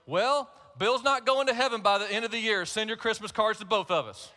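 a mother joking about her husband; playful mom. Retold or imitated. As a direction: read mom's post with a cheeky laugh. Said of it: "she put on Facebook".

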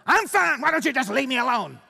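mock angry yell at family; hoarder screaming. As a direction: scream back through the door. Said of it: "screams through the window".

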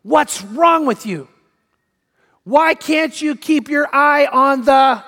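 slow, drawn-out mock yell of outrage; mock screaming. Dad berating his son at Little League, mock screaming. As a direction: imitate a father yelling, stretching each word. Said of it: "and he starts screaming".

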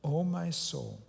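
slow, reverent psalm reading; reciting a psalm. Acted. Pastor reading a psalm to his congregation, slow and reverent. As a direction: let each phrase sink in, slowly. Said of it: "this psalm which says".

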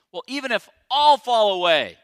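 loud, proud boast; boastful Peter. Retold or imitated. Preacher voicing Peter bragging loudly before the disciples. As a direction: brag loudly to the other disciples.

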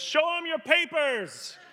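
high, slow, drawn-out taunt; sly. Acted. Farmer to the fleeing government man, sly and taunting. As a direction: call out the punchline with sly relish. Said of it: "the farmer looks at him and slyly says".

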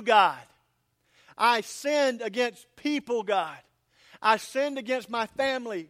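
loud, high impassioned preaching, slowing on the prayer lines; preaching at full force. Acted. Pastor urging his congregation, preaching at full force. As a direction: pour it out, building to a cry.

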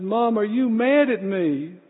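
a hint of a teary child asking mom; tearful little boy. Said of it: "with big tears in his eyes".

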